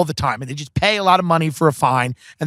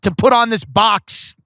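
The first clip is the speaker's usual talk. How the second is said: slightly hammed-up, higher-pitched plea; mild mock exasperation; 5 semitones higher than usual. Comic asks host to stall, mild mock exasperation. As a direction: plead with a touch of impatience, slowing at the end. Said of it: "I'm like".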